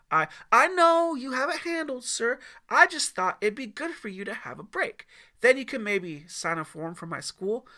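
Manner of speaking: put-on high, loud, stammering boy; flustered teen. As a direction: rush it, voice cracking high. Teen pushes his request.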